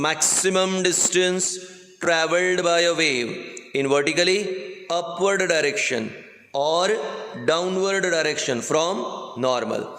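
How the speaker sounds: very slow, spaced-out dictation. Acted. Teacher dictating a definition to students, slow dictation. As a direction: dictate in short chunks with long pauses.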